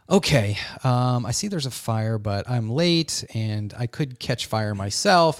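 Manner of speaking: slow, low, hesitant thinking aloud; mock hesitant deliberation. Bystander weighing up a fire, slow mock hesitation. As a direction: weigh it up slowly, half to yourself. Mocking someone who deliberates before helping.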